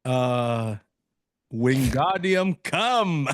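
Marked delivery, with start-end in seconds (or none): 1.5-3.3 slow, drawn-out mock incantation; spell casting. Asked what spell he would do, slow mock incantation. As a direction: intone it grandly like a wizard's spell. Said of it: "the spell you would do".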